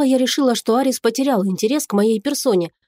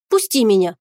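ordinary delivery

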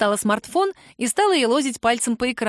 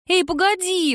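put-on high indignant girl's cry; indignant protest; 9 semitones higher than usual. A narrator's reading. Girl protesting Kira hiding the tattoo, high and indignant. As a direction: object like an outraged kid. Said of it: "возмутилась Лялька".

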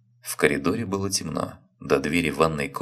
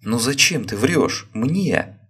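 high, loud hurt shout; 8 semitones higher, 5 dB louder, slower than usual. A narrator's reading. Wife shouting at husband for lying, loud and high. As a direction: throw the question at him full voice. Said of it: "закричала Татьяна".

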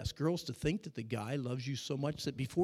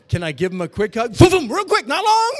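high, loud mock teen pleading; hammed-up teen begging; mock eager teen; 10 semitones higher, 17 dB louder than usual. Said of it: "questions that comes to me".

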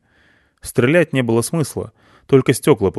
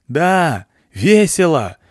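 shouting; 7 semitones higher, 3 dB louder, much slower than usual. A narrator's reading. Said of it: "прокричал я".

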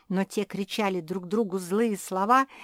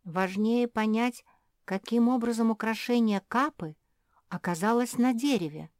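thoughtful; 4 semitones higher than usual. Acted. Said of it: "задумчиво произнесла Мафи".

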